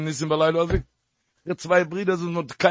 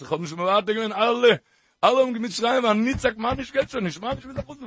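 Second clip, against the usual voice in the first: put-on crying child; much faster than usual. Small child pleading with Mama to go home, mock whimper. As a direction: play a little kid begging to go home, half-crying. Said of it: "weinen, schreien".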